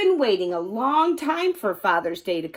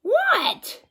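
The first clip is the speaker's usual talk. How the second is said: high, puzzled what; startled. Acted. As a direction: caught off guard. Startled reply.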